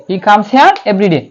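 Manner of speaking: he comes here every day, spoken slowly word by word; slow model sentence. Shown as a demonstration. Teacher reads the correct sentence back to students, slow. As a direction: dictate it so students can follow. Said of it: "এটাই হবে কি সঠিক উচ্চারণ".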